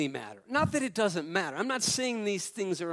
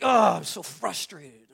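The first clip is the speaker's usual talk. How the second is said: retold frustration; 6 dB louder, slower than usual. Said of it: "I'm like".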